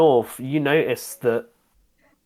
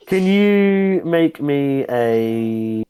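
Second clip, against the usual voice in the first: laughing through the words; can barely get it out for laughing; much slower than usual. Real, not acted. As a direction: GM cracking up while asking for a roll. GM laughing mid-request.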